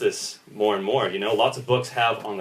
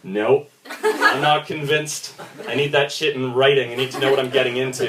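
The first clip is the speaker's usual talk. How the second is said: sceptical buyer. Retold or imitated. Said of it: "is just like".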